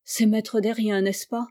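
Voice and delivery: detective gently coaxing the butcher. Acted. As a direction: coax the name out gently. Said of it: "avec beaucoup de douceur".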